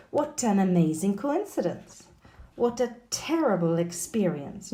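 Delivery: "What an", "What a" joined as wha-tan, wha-ta; linked words. Shown as a demonstration. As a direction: run each t into the following vowel. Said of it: "on the linking".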